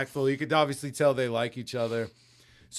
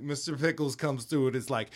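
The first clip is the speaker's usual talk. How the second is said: ordinary delivery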